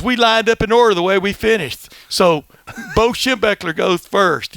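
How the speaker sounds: "first" lisped as "firtht"; Lou Holtz impression. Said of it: "a lot of a lisp".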